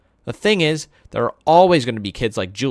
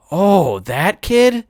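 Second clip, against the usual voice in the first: put-on little boy voice; 8 semitones higher, 6 dB louder, much slower than usual. Little brother Jamie voiced.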